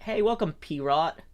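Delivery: mock French accent greeting; a light French accent. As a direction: say it like a French host. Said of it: "say it with the, the, f-, the French, French accent".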